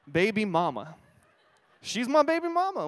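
laughing through the words. Real, not acted. Pastor laughing at his phone before the congregation, real laughter. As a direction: laugh it off, embarrassed.

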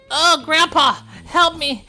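high, loud pretend panic; hammed-up plea to Grandpa; mock cry for help. Character burning, calls Grandpa.

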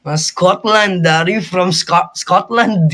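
mock Scottish accent; playful try at Scottish-accented English. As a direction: attempt a Scottish accent, stretched out. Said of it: "yung accent ka pang Scotland".

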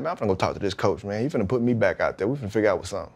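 low, soft, quick self-talk; lightly muttered plan. Retold or imitated. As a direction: mutter the plan to yourself fast.

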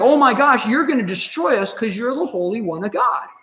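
a lightly voiced panicked demon; mock demon voice. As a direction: demon realizes who Jesus is, mildly panicked. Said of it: "this thing's like".

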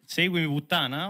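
shocked, disbelieving echo; incredulous repeat. Retold or imitated. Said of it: "Ho sentito bene?".

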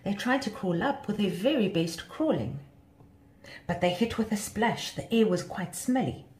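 lilting read of a rhyming tale; children's story narration. A narrator's reading. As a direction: tell it to children, line by line.

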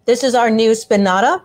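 talking with a mouth full. Real, not acted. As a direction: speak around a bite of salami. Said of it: "Sorry, I got my mouth full".

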